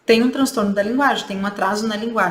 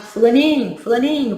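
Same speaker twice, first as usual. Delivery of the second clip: lightly acted calling of a child's name; mild parental call, repeated for attention; 3 semitones higher, 4 dB louder than usual. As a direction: call for the child, slightly raised. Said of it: "o pai e a mãe chamam quarenta vezes".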